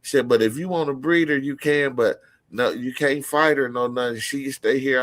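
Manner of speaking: Walt's wife. Retold or imitated. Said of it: "His wife was like".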